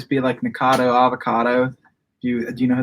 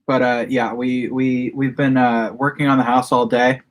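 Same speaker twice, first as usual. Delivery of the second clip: talking through a mouthful of food; mouth full. Real, not acted. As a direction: speak around a bite of food. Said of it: "I shouldn't shove food in my mouth mid-sentence".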